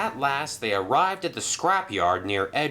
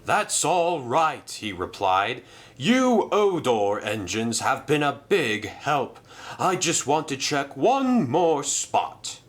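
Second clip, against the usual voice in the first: lightly voiced grateful engine; 5 semitones higher than usual. Merlin thanking Arthur and Madge, lightly higher. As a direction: thank them warmly.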